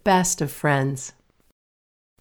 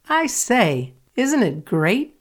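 excited shout; 6 semitones higher, slower than usual. A narrator's reading. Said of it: "shouted John".

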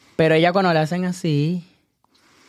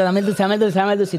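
put-on whiny kid; 3 semitones higher than usual. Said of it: "es como un carajito".

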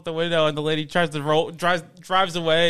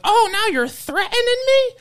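very high, louder mock outrage; mocked indignant lady; 5 dB louder than usual. Lady reacting to his warning about his mom, mocked indignant lady. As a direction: imitate her squeaky, affronted challenge. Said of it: "And she's like".

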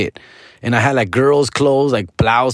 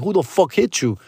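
concerned mom; 8 semitones higher than usual. Retold or imitated. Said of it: "she was also concerned, like".

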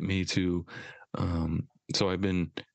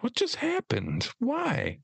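imitated confusion; 13 semitones higher, slower than usual. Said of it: "And you're like".

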